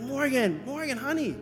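acted parental coaxing. Father coaxing reluctant child.

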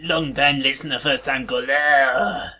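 a light mock French accent, phone caller. Prank caller on a podcast, in a light mock French accent. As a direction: play a French caller faking a radio call-in, light French accent. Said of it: "it's a French accent".

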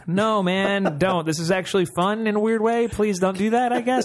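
high, nervous laughing plea; nervous laughter. Retold or imitated. Cornered player pleading with nervous laughs, high. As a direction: beg through giggles, lightly. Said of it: "I'm having nervous laughter the whole time".

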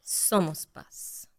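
very slow breathy whisper; whispered mantra. Shown as a demonstration. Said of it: "en tu voz de maestra de yoga".

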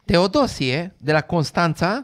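mock-incredulous questioning; sarcastic. Comic feigning shock at gossip about a clergyman, sarcastic. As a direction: feign surprise at the name. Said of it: "Cred că e sarcastic".

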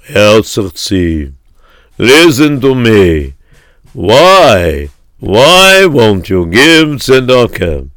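slow, halting, earnest rabbi voice; lightly voiced rabbi pleading slowly with a miser. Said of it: "came over to him and he said".

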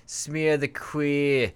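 slow, drawn-out Boston accent. Shown as a demonstration. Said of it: "I like to say it with a Boston accent".

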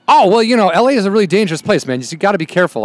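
lightly voiced high, sudden friendly tone; mock chummy stranger backing down; a hint of a nervous friendly driver; imitated friendly guy. Biker-turned-friendly quote, high voice.

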